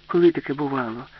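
lightly voiced Alice, pitch lifted in disbelief; disbelieving Alice. A narrator's reading.

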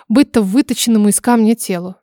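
plain reading voice

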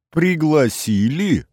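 high, drawn-out amused question; laughed retort. A narrator's reading. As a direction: echo it back as if amused, pitch jumping up. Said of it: "рассмеялся я".

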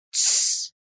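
whispered hush; a quick soft shh; quiet hush from the young lady; shushing. Acted. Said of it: "как нежен был её голос".

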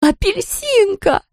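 high, slow anguished cry. A narrator's reading. Owner crying out to her hurt cat, high and drawn out. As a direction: wail the cat's name up high, drawn out. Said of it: "потом закричала".

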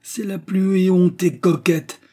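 high, loud, drawn-out squawk; yelping indignation. A narrator's reading. Housewife denouncing the young lady, yelping indignantly. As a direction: yelp it with virtuous outrage. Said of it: "glapit la ménagère".

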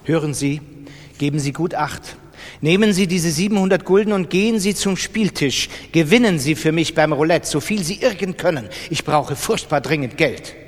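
leicht angedeutete, drängende Auftraggeberin; dringende Bitte. Acted. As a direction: eindringlich bittend, nur dezent verstellt. Figur bittet Erzähler um Geld. (zum Erzähler gewandt, dezent gespielte, drängende Bitte um Geld)

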